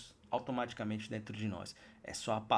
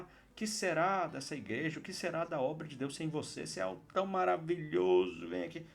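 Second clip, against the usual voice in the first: higher, hammed-up begging flattery; mock pleading; 3 semitones higher than usual. Preacher pretends Jesus begs the leaving disciples, mock pleading. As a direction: plead like a needy fawning host.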